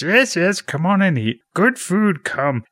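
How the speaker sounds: high, sing-song little creature voice; Yoda. Retold or imitated. Yoda inviting Luke in to eat, high creature voice. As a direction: coax in a squeaky puppet voice. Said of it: "He says".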